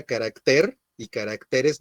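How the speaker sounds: "carácter" as ca-rac-TER, "caracteres" as ca-rac-TE-res; shifted word stress. Shown as a demonstration. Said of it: "acentuar estas palabras en la última sílaba". («carácter» acentuado en TER, «caracteres» en TE)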